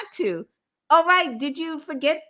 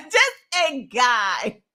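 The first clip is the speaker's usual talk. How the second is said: laughing; much slower than usual. Real, not acted.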